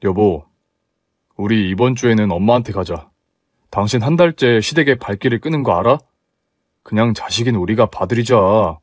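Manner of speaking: husband coaxing his wife to visit his mother. Acted.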